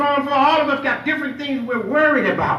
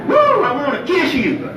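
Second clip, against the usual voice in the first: laughing; 2 semitones higher than usual. Real, not acted. Joking affection to brothers.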